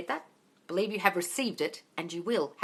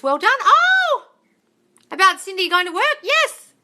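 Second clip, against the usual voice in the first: loud, high-pitched cheering; thrilled congratulations; 13 semitones higher, 11 dB louder, slower than usual. Real, not acted. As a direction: celebrate with a whoop. Celebrates viewer's good news.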